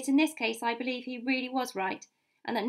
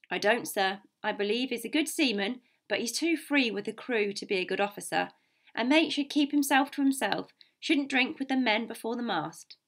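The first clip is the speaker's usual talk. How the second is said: firm captain giving his judgement; lightly voiced stern officer; blunt sea captain. Captain tells the doctor of the mate's faults, blunt.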